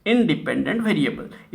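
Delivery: very slow, word by word; teacher dictating the definition; slow dictation. Shown as a demonstration. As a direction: spell the rule out slowly for the class. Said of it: "इसको आप कैसे लिखेंगे".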